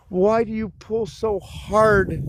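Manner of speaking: high, slow drawn-out whine; mock-pleading high whine to the dogs; whiny plea. Scolding dogs pulling on leash.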